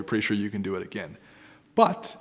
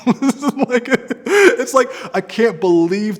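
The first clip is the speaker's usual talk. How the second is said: laughing; 13 semitones higher, 11 dB louder, much slower than usual. Real, not acted. Laughing at his own purchase.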